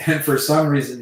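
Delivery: usual speaking voice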